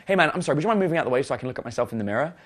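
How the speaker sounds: mild, quickening polite ask; polite request. Retold or imitated. Asking a big stranger to move from the mirror, politely. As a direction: re-enact a courteous request in a rush. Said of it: "polite as you can".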